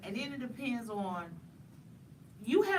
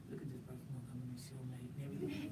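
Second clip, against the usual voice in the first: hushed, low, quick aside about someone; demonstrated mocking whisper; stage whisper; 10 semitones lower, 14 dB quieter, faster than usual. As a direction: whisper it like gossip the target can't catch. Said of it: "You start whispering like".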